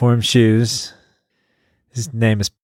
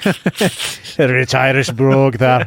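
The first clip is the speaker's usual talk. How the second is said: slow, laughing put-on Irish brogue; a half-hearted Irish accent through a laugh; mock Irish brogue; much slower than usual. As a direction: ham up a rich Irish brogue, slowly. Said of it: "Oh, here's the Irish brogue".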